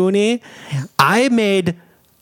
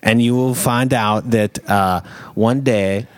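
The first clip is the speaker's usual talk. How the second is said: put-on German accent. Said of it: "Your German accent's really off-putting".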